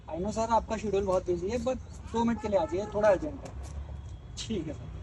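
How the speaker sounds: low, softened phone manner; deferential request. Acted. Employee asking busy boss to come down, deferential request. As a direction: coax politely and humbly.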